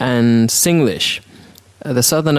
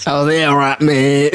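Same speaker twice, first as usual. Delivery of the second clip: put-on British accent. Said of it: "old accent like that".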